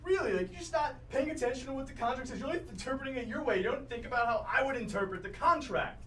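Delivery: acted exasperation at a roommate; exasperated roommate. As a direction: argue your side in frustration. Acted roommate quarrel continues.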